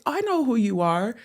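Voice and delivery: lightly imitated high-pitched voice; Maury. Cartoonist cousin telling the caller he knows her, lightly high-pitched. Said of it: "Maury has this kinda high-pitched voice".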